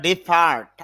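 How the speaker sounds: ডিপার্ট with the r sounded before t; r pronounced. Shown as a demonstration. Teacher showing learners the American-style form, r pronounced. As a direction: say ডিপার্ট with an audible r, "di-part". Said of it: "আর এর উচ্চারণ করি".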